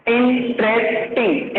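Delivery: इंटरेस्टिंग slow, split as in, tres, ting; syllable by syllable. Shown as a demonstration. Teacher showing the syllables to pupils, slow broken इंटरेस्टिंग. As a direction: pause between each part of इंटरेस्टिंग. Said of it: "उसमें तीन चार syllables में आ जाते हैं".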